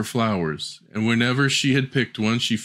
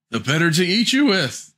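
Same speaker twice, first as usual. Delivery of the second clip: wolf pouncing; 7 semitones higher than usual. Acted. Wolf reveals himself.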